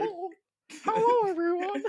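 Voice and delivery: very high, loud Mickey Mouse squeak; squeaky puppet voice. Acted. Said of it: "I asked you not to do that voice on screen".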